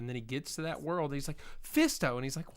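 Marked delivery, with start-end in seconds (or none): 1.6-2.1 mock announcer. S1 voices a character announcing a name.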